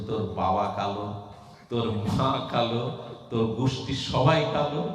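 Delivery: put-on child hurling insults back, rising; angry retort. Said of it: "Govinda রেগে মেগে গিয়ে". (রেগে চড়তে থাকা স্বরে পাল্টা খোঁটা)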